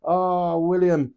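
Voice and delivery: playful exasperated wail; mock dismay. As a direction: protest theatrically, stretching out the vowels. Mock dismay at William joining.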